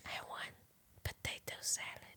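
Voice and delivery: playing along in a hushed whisper. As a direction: whisper a secret food order. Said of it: "And Jules whispers in my ear".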